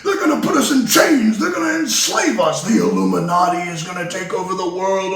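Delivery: hammed-up imitation of a conspiracy caller; mocking the caller. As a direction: parrot the doomsayer's hysteria. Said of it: "another one of these people".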